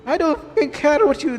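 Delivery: acted family quarrel. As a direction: voice both sides of a family fight. Voices heated mother-daughter argument.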